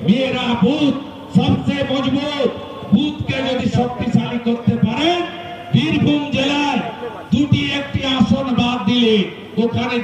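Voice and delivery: forceful stump oratory, each phrase held apart; political rally speech. Real, not acted. Speaker urging supporters to change the state government, forceful rally oratory. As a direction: declaim to the crowd in punchy, paused phrases.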